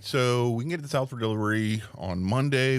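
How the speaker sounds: polite phone greeting, lightly put on; customer service voice. Shown as a demonstration. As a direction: answer the call like a friendly rep. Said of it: "that's definitely my phone voice".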